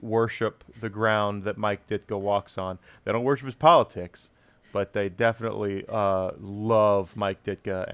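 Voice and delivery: put-on thick Chicago Bears fan accent. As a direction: hold the Chicago superfan voice. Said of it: "this accent".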